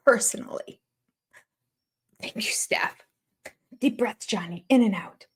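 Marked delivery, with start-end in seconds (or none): 2.2-3.0 imitated whispered thanks; mock whisper. Mocking a cast member whispering his thanks. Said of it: "took it upon himself to accept".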